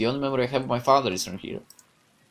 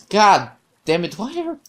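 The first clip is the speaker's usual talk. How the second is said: frustrated curse; 4 semitones higher, 5 dB louder than usual. Acted. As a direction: let the frustration burst out. Frustrated at being called jealous.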